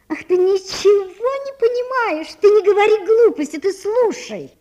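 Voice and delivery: high, pleading, close to tears; a girl crying out to be heard. A narrator's reading. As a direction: beg her friend to just listen. Natasha pleads with Sonya.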